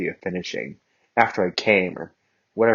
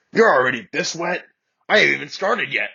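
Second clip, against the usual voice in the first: high, loud amazed voice; shocked; 7 semitones higher, 5 dB louder than usual. Acted. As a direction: act amazed at her. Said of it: "Bakugo shocked".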